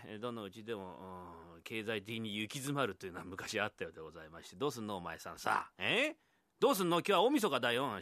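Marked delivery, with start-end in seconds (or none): 4.6-8.0 nagging wife. Acted. Wife nags husband on New Year's Eve.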